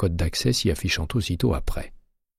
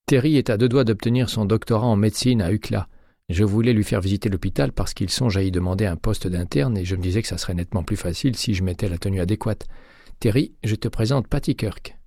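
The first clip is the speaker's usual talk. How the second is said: slightly higher, animated woman's part; lightly voiced Graziella, breezy introduction; 4 semitones higher than usual. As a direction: lightly act her explaining away a visitor. Narrator voices Graziella introducing a friend. (voix de Graziella légèrement jouée, plus aiguë)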